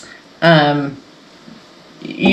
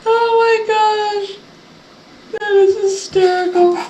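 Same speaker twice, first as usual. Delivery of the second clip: laughing; 12 semitones higher than usual. Real, not acted. Laughing at funny moment.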